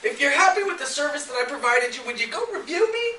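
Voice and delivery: lilting mock request, climbing high at the end; follow-up message voice. Automated message asking a past customer for a review, ingratiating. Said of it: "personalized with your freaking name in it saying".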